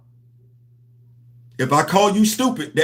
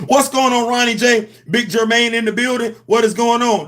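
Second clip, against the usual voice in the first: hyped greeting; 4 semitones higher than usual. Real, not acted. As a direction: shout out the viewer like a host.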